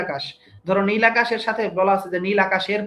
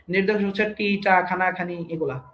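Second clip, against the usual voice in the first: ordinary delivery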